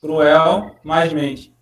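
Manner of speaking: cruel mais mente, each part drawn out very slowly; slow, split into parts. Shown as a demonstration. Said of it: "Sufixo mente, cruelmente".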